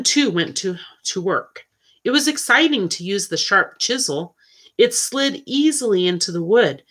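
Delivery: measured, expressive storybook reading; story narration. A narrator's reading. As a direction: read it aloud like a children's novel. Reads a story aloud.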